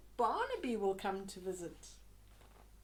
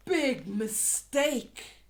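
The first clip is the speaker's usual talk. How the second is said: mock alarm; 7 dB louder, much slower than usual. Warning about the dragon.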